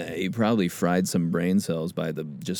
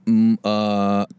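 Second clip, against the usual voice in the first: nervous speller; 2 semitones higher, much slower than usual. Shown as a demonstration. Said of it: "that's me trying to spell multiple".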